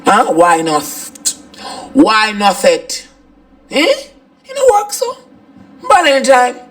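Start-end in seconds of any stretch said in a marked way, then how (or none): 3.7-6.6 high, teary half laugh; crying laugh. Acted. Wife venting about husband, laughing while crying. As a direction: laugh through the tears.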